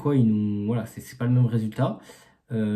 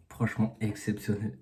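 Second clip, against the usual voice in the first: speaking quietly; 7 dB quieter than usual. Real, not acted. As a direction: keep it down, say it softly. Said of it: "je peux pas parler fort".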